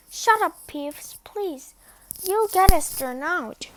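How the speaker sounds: high, loud desperate pleading; frantic plea. Acted. Ron pleading with Peeves.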